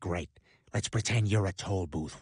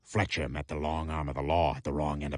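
deep voice. Acted. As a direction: growl it low like a cowboy. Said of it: "won a deep voice contest".

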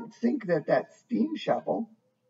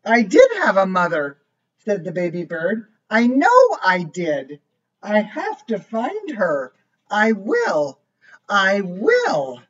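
lively storybook voice, each line set apart; reading to a child; 4 dB louder than usual. A narrator's reading. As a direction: read it like a bedtime book for a little one. Reads picture book aloud.

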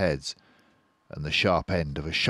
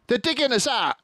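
high, loud alarm; alarmed shout; urgent shout; 5 dB louder, faster than usual. Acted. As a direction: warn them in panic. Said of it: "he shouted".

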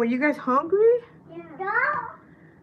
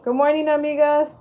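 bright, louder call of good morning; loud friendly hello; loud greeting; 4 semitones higher, 5 dB louder than usual. Real, not acted. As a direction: greet the whole chat with a big voice.

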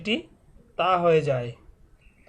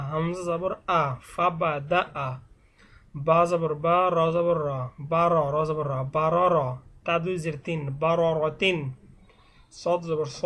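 measured letter-by-letter Quran primer reading; spelling drill recitation. Shown as a demonstration. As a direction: recite each spelling, then join the syllables. Spells Arabic words aloud as drill. (বানান করে টেনে টেনে পড়া)

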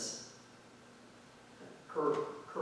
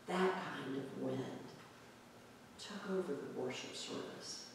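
hushed; 3 semitones lower, 12 dB quieter than usual. Acted. Preacher inviting the congregation to feel the wind, hushed. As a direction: draw them into awe, barely voiced. Hushed reflection on the wind's power.

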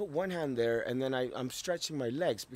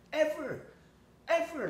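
high, loud insistence; emphatic outburst; 5 dB louder than usual. Real, not acted. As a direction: hammer the word home. Emphatic repetition, much higher and louder.

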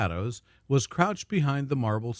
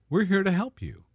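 usual speaking voice

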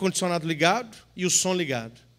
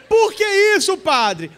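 mock surprised question; 10 semitones higher, 6 dB louder than usual. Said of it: "imagined listener question".

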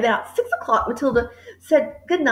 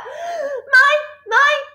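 high, loud, astonished teacher; startled exclamation; 12 semitones higher, 3 dB louder than usual. A narrator's reading. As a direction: exclaim in concern at the child. Miss Honey startled by child's arrival.

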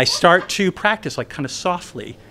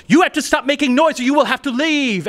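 stern dorm manager; 11 semitones higher than usual. Retold or imitated.

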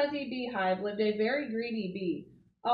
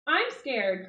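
mild scared cry; 3 semitones higher, 4 dB louder than usual. Acted. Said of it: "cried the greedy bee".

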